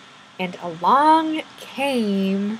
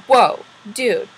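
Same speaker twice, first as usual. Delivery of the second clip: loud, acted exclamation of disbelief; lightly acted outrage; mildly indignant; 3 semitones higher, 5 dB louder than usual. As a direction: confront the culprit, half in earnest. Fairy confronts unicorn over puke.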